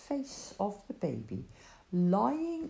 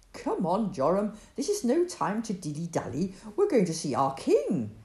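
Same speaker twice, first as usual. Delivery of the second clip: louder, eager call to hurry; excited yell; 2 semitones higher, 5 dB louder than usual. Acted. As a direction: urge him on, thrilled. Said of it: "Josiah yelled excitedly".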